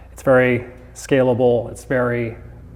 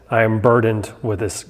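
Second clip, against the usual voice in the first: laughing through a mock-grand complaint; playful fake-dramatic grumble. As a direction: ham up a burdened sigh while laughing. Mock grumbling self-talk, laughing.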